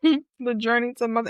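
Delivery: a small laugh into the words. Real, not acted. Host reflecting on her old belief about motherhood, laughing. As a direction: chuckle lightly while starting the phrase. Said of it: "and I'm laughing".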